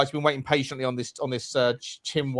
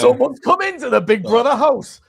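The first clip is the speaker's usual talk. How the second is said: higher, louder mock TV announcer; 10 semitones higher, 6 dB louder than usual. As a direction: announce it like reality TV. Mock Big Brother announcement.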